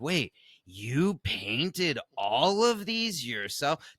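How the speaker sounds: slow, amazed question, stretched out; retold excited amazement. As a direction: marvel at the painted minis like an excited newcomer. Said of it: "she got very excited".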